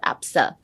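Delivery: ABSA puffed out with almost no voice; easy, sneeze-like. Shown as a demonstration. Teacher showing it flows easily, light sneezy ABSA. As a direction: let ABSA slip out like a little sneeze. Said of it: "how easily it should flow".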